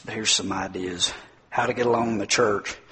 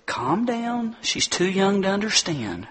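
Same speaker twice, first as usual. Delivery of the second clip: soothing mom; 5 semitones higher than usual. Retold or imitated. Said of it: "She said".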